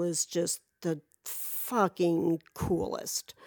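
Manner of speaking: slow, ending in a whisper; awed whisper. Real, not acted. Praising Neil, trailing into an awed whisper. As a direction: hush it out in admiration.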